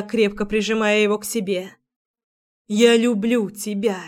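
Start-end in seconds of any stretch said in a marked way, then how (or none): 2.7-4.0 inner cry. Acted. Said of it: "кричала моя душа".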